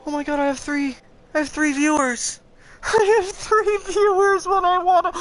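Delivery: high, loud, laughing disbelief; thrilled to spot viewers; excited surprise. Real, not acted. Gamer spotting three live viewers, excited and laughing.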